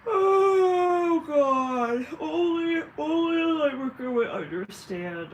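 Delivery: high, loud drawn-out wail; wailing outburst. Acted. Light worker lamenting who would understand, loud high wail. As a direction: cry it out to the heavens, stretched long. Mock outburst before calm repeat.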